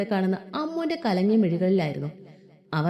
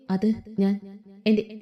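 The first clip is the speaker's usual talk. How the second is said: faltering; much slower than usual. Acted. Ammu, caught lying to her friends, slowly faltering. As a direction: stall for time, unsure what to say. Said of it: "എങ്ങനെയൊക്കെയോ പറഞ്ഞു".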